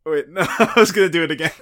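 loud, fast, laughing through words. Real, not acted. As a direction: laugh while talking. Catches herself mid impression.

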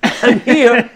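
high, loud announcement of arrival; breathless arrival. Retold or imitated. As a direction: burst in calling out, half laughing. Retold rushing in late.

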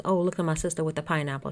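mock Jersey accent, quick patter; Joe Gorga. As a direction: imitate a Jersey guy, not quite real. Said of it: "don't mind my Jersey accent".

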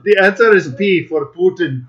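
lightly put-on mock-Chechen accent; muddled Chechen accent. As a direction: slip into a botched Chechen accent. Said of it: "Why am I even going Haji on that accent".

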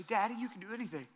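a hint of a toddler repeating "Daddy, you can do anything." fast; son echoing. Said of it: "he'll say".

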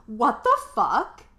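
retold sobbing outburst. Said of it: "out loud as I sobbed".

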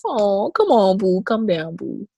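high, doting sing-song; doting on kid. Retold or imitated. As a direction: coo at a naughty toddler.

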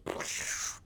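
spluttering whoosh; downhill plunge noise. Shown as a demonstration. Preacher shows the story going downhill, spluttering whoosh. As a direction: make a noise of things plummeting.

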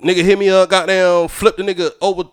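lightly put-on hometown Georgia talk; Georgia accent. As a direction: talk like on the phone with Georgia friends. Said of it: "that's how niggas talk where I'm".

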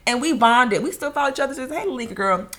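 talking around gum; words slurred by chewing gum. Real, not acted. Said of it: "I have gum in my mouth".

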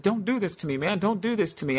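imitating a crying man's high plea; tearful pleading. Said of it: "now you got me crying".

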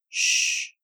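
whispered shush; a breathy warning hush; hushing shh. A narrator's reading. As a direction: hush her so he can sleep. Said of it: "Scully said as she nodded".

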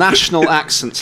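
"national" punched in correction; stress on NATIONAL. Real, not acted. Co-host correcting the question, stress on "national". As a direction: hit "national" against regional.

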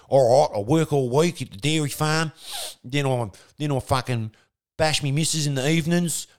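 a hint of a bogan dairy worker; lightly voiced bogan farmer. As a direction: rattle off the week as a bogan bloke.

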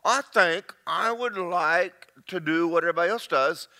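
deliberate decision. Acted. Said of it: "if you really wanna crank a car up".

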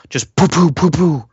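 high puffed "poo poo" gunfire; quick popping gun noises by mouth; imitated gunshots. Film fan acting out the shooting of two kids, mimicked gunshots.

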